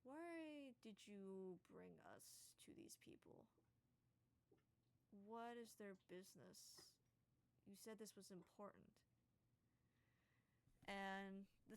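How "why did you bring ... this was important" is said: slow, soft, tired giant asking; a weary tall giant questions his companion slowly; annoyed giant. Acted. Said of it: "kinda looks down at y'all and just goes".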